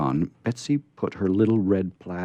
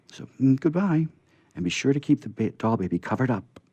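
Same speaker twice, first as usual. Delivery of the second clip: put-on little girl voice. Betsy explaining and saying goodbye.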